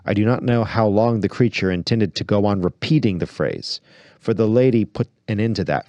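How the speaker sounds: reads the book aloud with measured, acted delivery; story narration. Host reading Lewis aloud on the show, story narration. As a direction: narrate it like a story read to listeners.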